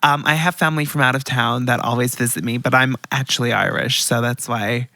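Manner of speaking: lightly acted American persona; chatty put-on American; American accent. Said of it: "I have an American persona now".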